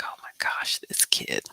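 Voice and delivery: unvoiced, amused aside under her breath; mother whispering about her son; exasperated whisper. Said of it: "I was like".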